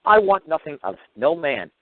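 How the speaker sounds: retold yell. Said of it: "I yelled out".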